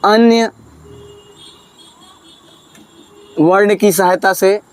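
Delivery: slow dictation, long pauses between words; slow dictating teacher; dictation pace. Shown as a demonstration. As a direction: spell it out slowly for students to write. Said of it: "तो लिखिए".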